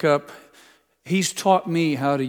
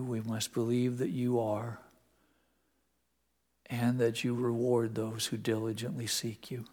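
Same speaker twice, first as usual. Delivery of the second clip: prayer; 5 dB quieter than usual. Real, not acted. Leads closing prayer.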